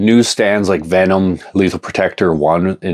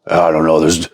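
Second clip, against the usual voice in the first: buddy unimpressed by the pictures, in a lightly put-on gruff voice; Vinny voice. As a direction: lightly voice your buddy as a gruff wrestler type. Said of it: "my best Vinny voice".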